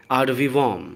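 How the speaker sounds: "ad vivum" very slow: "aad VEE-vum"; drawn-out model "ad vivum", each syllable spaced; correct pronunciation. Shown as a demonstration. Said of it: "इसका correct pronunciation है". ("ad vivum" बहुत धीरे, "आड वीवम")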